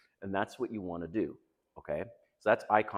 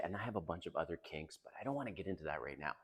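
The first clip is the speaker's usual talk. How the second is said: quick, soft, low aside; coy brush-off; 3 semitones lower, 9 dB quieter, faster than usual. Acted. Man teasing his date by holding back, coy.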